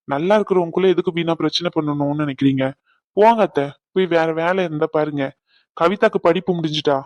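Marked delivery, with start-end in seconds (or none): 3.2-5.3 husband snapping at his aunt to leave; sharp dismissal. Acted. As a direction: tell her to go, hard and fed up. Sends aunt away sharply.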